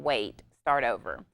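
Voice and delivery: slow, low, firm warning. Retold or imitated. Parent halting a child's back talk, slow firm warning. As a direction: calmly stop the child in their tracks. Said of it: "in a warning tone by saying".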